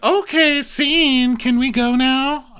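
loud, high mock squeal; Brandy impression. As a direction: squeal it out in caricature. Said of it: "Brandy squeals. That's how she talks".

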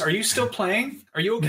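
lightly voiced app prompt; mock concerned screen prompt; Netflix prompt voice. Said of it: "the Netflix".

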